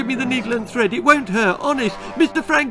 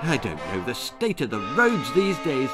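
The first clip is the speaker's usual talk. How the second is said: nervous babble; 3 semitones higher, 3 dB louder, faster than usual. Acted. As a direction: keep talking to stall, panic rising. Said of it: "stammered Jack".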